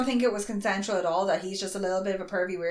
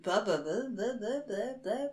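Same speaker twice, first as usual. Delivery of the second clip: mock rambling; 8 dB quieter than usual. Co-host waving off the summary praise, mock rambling. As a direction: trail off into soft blah-blahs.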